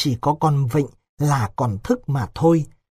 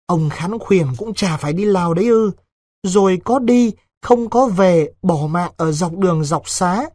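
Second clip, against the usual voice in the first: raised voice, warning her lover; anxious warning girl; 3 semitones higher than usual. Acted. Vịnh warns Đối with those who went to Laos, anxious.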